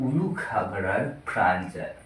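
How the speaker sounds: halting, long-paused tipsy monologue; drunk playwright. Acted. Drunk playwright arguing with himself about war and kings, lightly slurred-drunk act. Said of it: "নাট্যকারের কথোপকথন মদ্যপ অবস্থায়".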